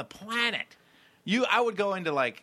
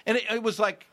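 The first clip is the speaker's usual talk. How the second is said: swearing tirade; 9 semitones higher than usual. Pretend. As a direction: rant like a cocky astronaut. Astronaut swearing at everyone.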